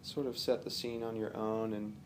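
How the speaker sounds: calm, unhurried meditation guide with long pauses; relaxed guided-relaxation delivery, phrase by phrase; guided visualization. Real, not acted. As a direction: gently lead the listener through imagery, pausing often.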